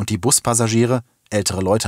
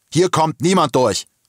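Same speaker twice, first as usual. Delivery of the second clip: high, yelled shout through a megaphone; 7 semitones higher, 4 dB louder than usual. Amid panic in the city, a police officer is shouting through a megaphone. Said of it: "schrie der Polizist durch das Megafon".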